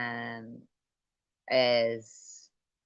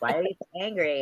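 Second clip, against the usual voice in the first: Doctor Phil imitation; 4 semitones higher, 4 dB louder, faster than usual. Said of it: "he's like".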